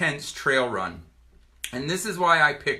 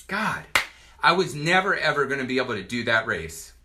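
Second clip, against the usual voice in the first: choking up. Real, not acted. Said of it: "I'm gonna get it together".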